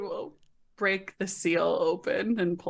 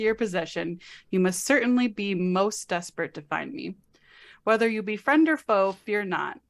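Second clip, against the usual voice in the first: reading a letter aloud; 3 semitones lower, 3 dB quieter than usual. Acted. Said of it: "I know you don't like reading aloud".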